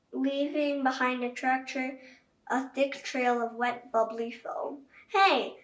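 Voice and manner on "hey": fan shout. A narrator's reading. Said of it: "shouted a fan".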